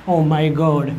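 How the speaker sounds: mock American "Oh my God", pitched low; imitated American accent. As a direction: mimic kids putting on an American accent. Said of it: "बच्चे आजकल American accent".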